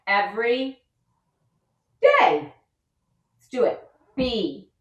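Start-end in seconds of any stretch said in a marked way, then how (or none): 2.0-2.5 leaps way up high and loud on day; high sing-song day. Shown as a demonstration. Teacher chanting to kids with a high leap. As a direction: sing the last word up high.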